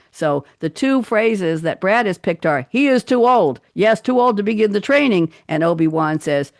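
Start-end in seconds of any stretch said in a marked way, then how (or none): 2.7-5.3 higher, louder hint of Yoda; light Yoda impression. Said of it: "expecting to hear the accent".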